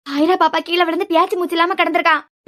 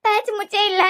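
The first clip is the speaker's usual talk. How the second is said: tearful, frightened; 2 semitones higher than usual. Acted. Young woman telling her brother the child won't respond, crying. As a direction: voice choked with tears and fear. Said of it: "என்ன, ஏன் அழுற?".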